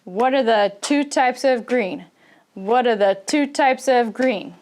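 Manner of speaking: "two types" and "green" stressed, small words reduced; stress on key words. Shown as a demonstration. English teacher demonstrating question rhythm, stress on two types and green. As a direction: hit "two types" and "green", glide over the rest. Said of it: "these two types and green".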